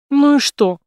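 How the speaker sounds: high, loud snap; snapping back. A narrator's reading. Jane snapping at Brace, defiant. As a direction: bite his head off. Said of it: "огрызнулась Джейн".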